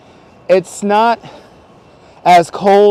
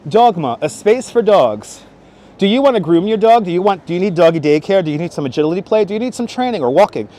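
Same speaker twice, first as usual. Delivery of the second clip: mock ad read. Streamer improvises a commercial for a dog business, mock ad read. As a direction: sell it like an announcer, rattling off questions.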